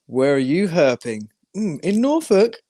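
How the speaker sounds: slow, drawn-out mock call to Steve; mock questioning. Acting out confronting Steve about herping, drawn-out mock questioning. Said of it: "I'll be like".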